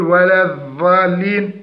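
الضالين with the dad turned into "dh", as in "ðalin"; dad as dhal. Shown as a demonstration. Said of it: "أو يقول". (قلب الضاد ذالا)

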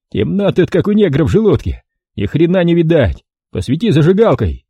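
lightly voiced thug; gruff thug. A narrator's reading. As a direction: complain in the dark.

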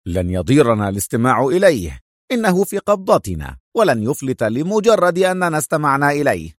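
decisive, measured assurance; mildly firm ruling. Acted. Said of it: "قال شيفالي في حزم".

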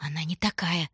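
breathy secret whisper. A narrator's reading. Tanya whispers to Shurka about aunt Vera, voiceless. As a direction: hush it so aunt cannot hear.

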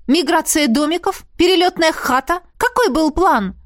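furious rant. Acted. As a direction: fling every question at him.

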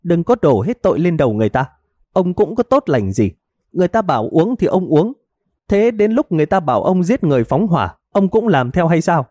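high, sarcastic jabs; wife sneering at her husband's excuses; mocking wife. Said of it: "vừa mỉa mai".

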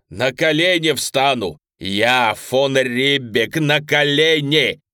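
loud, slow, desperate begging; pleading cry. Acted. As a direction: cry out, begging on your knees. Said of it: "умоляюще вскричал".

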